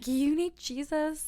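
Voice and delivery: slow, high mock pious voice; preachy stranger, slow and mocking; mock concerned onlooker. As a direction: drag it out like a churchy stranger. Friends voicing onlookers mockingly.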